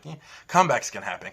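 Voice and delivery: firm pep talk to himself; self pep talk. Retold or imitated. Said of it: "I'm like".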